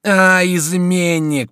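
high, loud, slow; furious mocking cry; angry taunt. A narrator's reading. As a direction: spit out traitor. Chico beating the duke.

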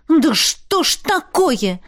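slow, high, exasperated; angry outburst. A narrator's reading. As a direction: drag it out in fury. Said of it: "взорвалась гневной тирадой". (гневно, медленно и высоко)

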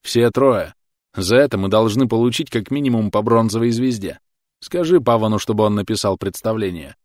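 loud, eager bragging; excited boasting. Acted. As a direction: crow about the kill. Soldier boasting after kill.

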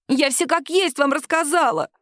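badly faked tearful whine; fake sob. A narrator's reading. Lying woman fakes crying for the captain. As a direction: put on false tears. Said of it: "ненатурально всхлипнула".

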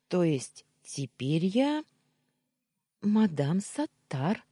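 slow, sly whisper with a smile; smiling confirmation. A narrator's reading. Maid confirming her new title, smiling whisper. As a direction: tease her gently, hushed and smiling. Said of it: "улыбнувшись, подтвердила Амина".

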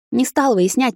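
ordinary delivery

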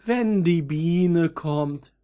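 high, slow, dreamy little violet; a lovesick young violet, drawn out high; young violet longing. A narrator's reading. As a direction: sigh it out like a young flower waiting. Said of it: "fiel das jüngere Veilchen ein".

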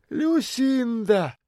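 высоко и очень медленно, нараспев; протяни имя с гордостью; жеманная бомжиха. A narrator's reading. (бомжиха представляется даме, нараспев)

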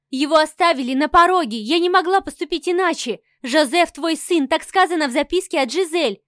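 wife blurting the explanation to her angry husband; blurted in one breath. Acted. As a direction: get it all out before he stops you. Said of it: "выпалила я на одном дыхании".

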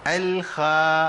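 الخا said through a smile, thinned and slow; smiling thin kha. Shown as a demonstration. Teacher showing the smile mistake on kha. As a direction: show الخا spoken with a smile, wrongly thinned. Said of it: "أنا عملت ابتسامة".

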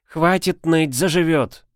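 shouting. A narrator's reading. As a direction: yell at her to stop whining. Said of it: "прикрикнула на плачущую девицу".

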